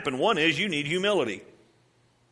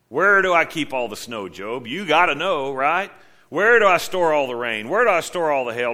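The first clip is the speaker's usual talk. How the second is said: loud, demanding questions, as God to Job; booming divine interrogation; God challenging Job; 6 dB louder than usual. Retold or imitated. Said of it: "You remember his response to Job?".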